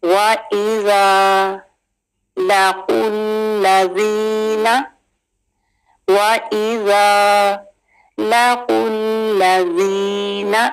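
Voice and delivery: slow tajweed recitation; Quran recitation. Shown as a demonstration. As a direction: recite slowly with melody. Recites the verse slowly. (धीमी तिलावत)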